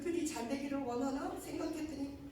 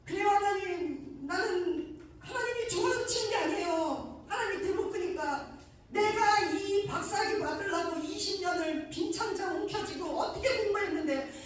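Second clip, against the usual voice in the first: impassioned confession; 5 semitones higher, 5 dB louder than usual. Real, not acted. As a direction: pour out the confession to God. Confessing pride, preaching intensely.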